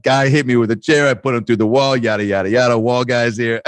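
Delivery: offhand recap, lightly imitated; matter-of-fact. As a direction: rattle off the chaos as routine. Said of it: "he was just so matter of fact".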